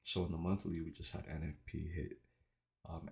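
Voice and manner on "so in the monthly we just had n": slight retainer lisp; wearing a retainer. Real, not acted. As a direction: speak with retainers in. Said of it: "it's 'cause I have my retainers in".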